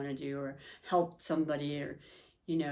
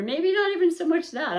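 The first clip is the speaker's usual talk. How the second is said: laughing; 11 semitones higher, 8 dB louder than usual. Real, not acted. Laughing at her own slip.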